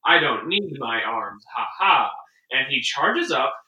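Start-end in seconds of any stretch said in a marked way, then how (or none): 0.0-2.1 low, slow gloating robot; smug robot voice. Retold or imitated. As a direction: gloat slowly, pitched down. Robot villain gloating in retelling.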